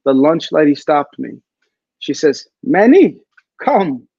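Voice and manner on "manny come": calling out. Retold or imitated. Lunch lady calling him over.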